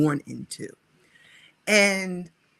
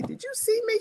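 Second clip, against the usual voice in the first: mock question; faster than usual. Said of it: "call a friend of mine and say".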